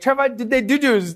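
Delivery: high-pitched child imitation; put-on toddler question; curious little brother. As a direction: ask innocently as a small kid. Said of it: "he looks at me".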